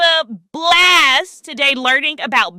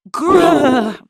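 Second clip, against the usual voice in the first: playful bear growl. Shown as a demonstration. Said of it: "Can you roar like a bear?".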